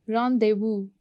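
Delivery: "Rendezvous" ending in an open oo; "Rendezvous" with neither Z nor final S sounded; silent Z and S. Shown as a demonstration. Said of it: "Z is silent and then S is silent". ("Rendezvous" में Z और S silent)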